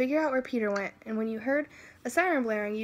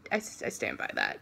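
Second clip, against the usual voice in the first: laughing; 11 semitones lower, 5 dB quieter than usual. Real, not acted. Laughing after own line.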